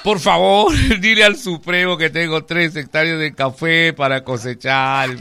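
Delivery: hammed-up begging that ends in wailing; plead, then break into mock sobs; comic tearful appeal. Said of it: "Empieza a llorar".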